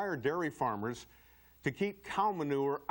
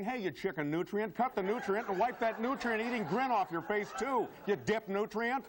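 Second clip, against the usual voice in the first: mock telling-off; 7 semitones higher than usual. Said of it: "call him on it by saying".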